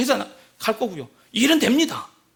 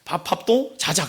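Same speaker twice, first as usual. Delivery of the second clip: terse Gyeongsang husband; clipped-off Gyeongsang phrases, one at a time; Gyeongsang dialect; 4 semitones lower, slower than usual. Acted. Gyeongsang husband demanding dinner then bed, terse dialect. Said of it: "경상도".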